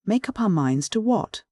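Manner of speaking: taken aback, high and slow; surprised. A narrator's reading. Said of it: "I asked in considerable surprise".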